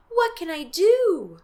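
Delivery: high, slow frantic plea; desperate. Acted. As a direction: beg for an answer in panic. Girl desperate.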